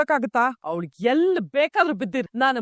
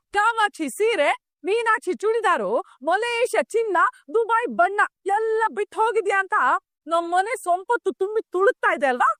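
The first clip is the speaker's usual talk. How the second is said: sarcastic taunt; 4 semitones higher than usual. Acted. Sarcastic list of daughter-in-law's things.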